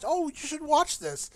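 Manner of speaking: imitating female friend. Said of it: "one female friend, she".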